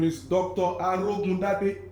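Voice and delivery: Arogun Dade with every syllable said clearly; "Arogun Dade" given as the proper pronunciation; correct name. Shown as a demonstration. Correcting the host on how to say "Arogun Dade". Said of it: "you mispronounced my name".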